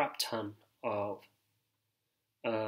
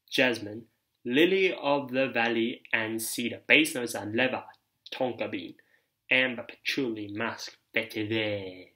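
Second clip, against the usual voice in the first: a light mock French accent reading the note list; 3 dB louder than usual. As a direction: list the notes with a hint of French flair. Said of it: "I don't know where that French accent came from".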